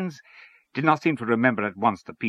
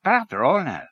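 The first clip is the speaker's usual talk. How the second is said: raised, protesting objection; higher-pitched quibbling character; argumentative; 9 semitones higher, 4 dB louder than usual. A narrator's reading. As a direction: cut in to dispute the point. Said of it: "said Mister Lyons argumentatively".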